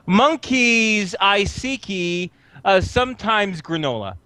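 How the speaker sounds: slow, halting silly proclamation; New Zoot character voice. Acted. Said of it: "and he goes".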